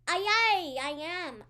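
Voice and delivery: calling back loud and high; loud pirate reply. Acted. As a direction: shout back like a sailor. Pirate-style reply to Mama's shout.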